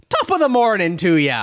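lightly put-on Irish accent; a hint of stage Irish; imitated Irish greeting. Quoting Judi Dench's entrance for co-hosts, imitated Irish greeting. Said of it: "she shows up and she's like".

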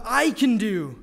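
"I can do" with the weight thrown on "I"; emphasis on I. Shown as a demonstration. Preacher showing the congregation a misreading, stress on "I". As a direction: punch the "I" in "I can do". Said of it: "would have us focus on the".

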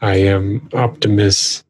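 measured, lightly boomed robot voice; a hint of heroic robot leader; Optimus Prime. Transformer introducing himself, lightly voiced booming robot. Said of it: "Optimus's voice is like".

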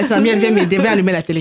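mock motherly call for help, half laughing; imitating a mum. Host joking like mums asking Samuel for help, mock motherly. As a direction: play a helpless mum calling someone over. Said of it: "j'ai fait comme les ma".

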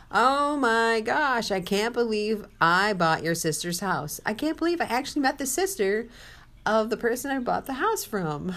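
playing the thrilled salesman who can't believe it; excited salesman. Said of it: "He was excited".

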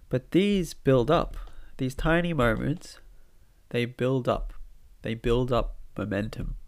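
nasal from a blocked nose; talking through a stuffed nose. Real, not acted. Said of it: "apologies, by the way, for my nasally voice".

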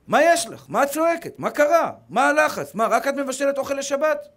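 a mock impatient husband snapping at his wife; irritated husband. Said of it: "ככה הוא אומר לה". (חיקוי בעל חסר סבלנות)

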